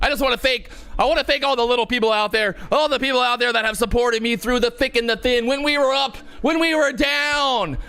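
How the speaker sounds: mock acceptance speech.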